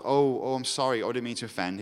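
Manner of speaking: mock meek apology; meek and mild. Preacher mimicking the reply Jesus did not give, meek and mild. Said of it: "is not a meek and mild".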